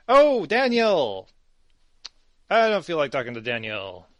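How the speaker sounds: drawn-out, loud, exasperated "Oh, Daniel!"; exasperated groan. Acted. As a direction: sigh out the name like she's sick of him. Bored NPC thoughts, GM voiced.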